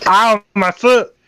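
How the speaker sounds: high yelp of pain; acted pain. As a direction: yelp over a hurt foot. Character's foot stuck through door.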